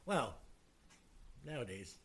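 talking with a mouthful; words around a bite of food; chewing while talking. Real, not acted. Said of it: "Sorry, I'm chewing".

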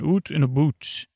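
imitating a bad Scottish accent; hammed-up fake Scottish vowels. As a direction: put on an amateurish Scottish accent. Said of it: "doing a bad Scottish accent".

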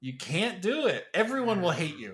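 squeaky scolding mother voice; high mock mom voice. Continues mom impression.

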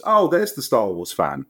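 a gentle hint of Mark Hamill. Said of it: "and he goes".

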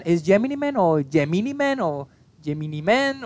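"Gemini Man" three ways, moving the stress each time; differing pronunciations. Retold or imitated. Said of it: "todos decían diferentes versiones del apellido".

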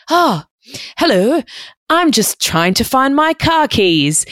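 high-pitched, flustered mock politeness; startled polite reply. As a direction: squeak it out, caught off guard and acting casual.

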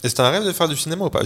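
talking with food in mouth; mouth full. Real, not acted. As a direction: ask it through a mouthful. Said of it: "Je parle la bouche pleine".

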